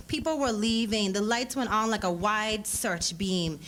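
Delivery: ordinary delivery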